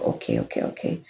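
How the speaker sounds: breathy whispered okay, okay, okay; barely voiced, giving in; hushed resigned okay. Whispering okay after his ultimatum, resigned.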